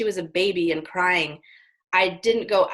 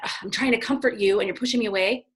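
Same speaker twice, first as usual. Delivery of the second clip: triggered parent; faster than usual. Retold or imitated. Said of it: "parents get triggered by that".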